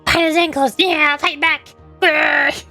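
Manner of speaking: mock-feral rallying cry ending in a growl; playful battle cry. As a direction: egg them on like a tiny fighter, then growl.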